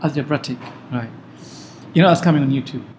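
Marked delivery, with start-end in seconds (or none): 0.0-0.6 "Algebraic" said as al-juh-BRAT-ik; imitated mispronunciation. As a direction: end "Algebraic" in "-brattic", short a and added t. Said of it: "What did she say initially?".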